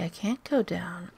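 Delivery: whispering. Real, not acted. Whispering while sneaking.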